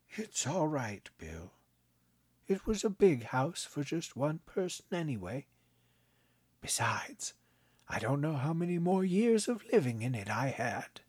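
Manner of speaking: put-on a kindly old man, gently amused; old grandpa voice. A narrator's reading. Grandpa teasing his grandson, kindly old voice.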